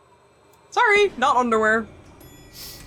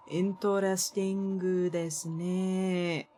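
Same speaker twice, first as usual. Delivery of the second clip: mock anime voice; 3 semitones lower, 6 dB quieter, much slower than usual. Mock anime phrases while gaming.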